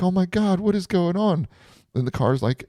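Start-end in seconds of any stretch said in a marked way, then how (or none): 0.0-1.5 high-pitched mock panic; retold shriek without much volume; Summer. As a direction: imitate a girl freaking out, voice way up. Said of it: "And Summer's like".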